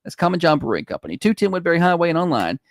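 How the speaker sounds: upbeat radio sponsor read; radio host plugs the brewery. Acted. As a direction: sell the brewery to listeners.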